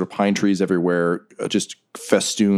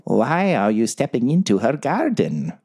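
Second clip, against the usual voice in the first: higher put-on challenge; ringing mystery voice; 4 semitones higher than usual. Unseen guardian challenges intruders in the garden, ringing voice. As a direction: ring out clear as an unseen challenger. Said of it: "you hear ring out loud and clear".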